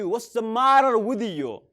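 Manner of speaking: slow and even; slow model phrase. Shown as a demonstration. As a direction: model it slowly. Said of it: "Or you can say".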